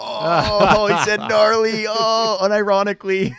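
high, loud mocking voice of locals. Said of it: "And people were like".

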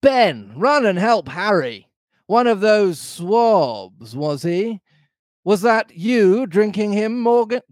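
high, indignant pirate landlord; Long John Silver crying out. A narrator's reading. Landlord rousing his men and accusing Morgan, high outcry. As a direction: fire questions and orders in a high sea-dog voice. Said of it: "cried Silver".

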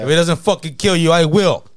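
hammed-up gangster threat in a stop-smoking ad; Goodfellas mobster voice. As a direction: play the movie tough guy promising to finish the job. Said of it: "I was waiting for that Goodfellas character".

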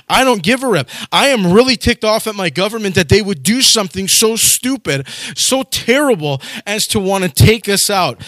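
a fed-up citizen blasting his government; mock angry rant. Mordecai voiced protesting at gates.

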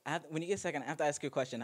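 high, loud mock-urgent ask; loud excited imitation. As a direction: imitate her eager question loudly. Mimicking friend asking a question.

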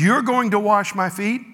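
Peter bristling at being served; indignant. Acted. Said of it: "Peter got, uh, indignant".

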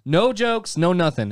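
can't stop laughing as he tells it. Real, not acted. Laughing while retelling.

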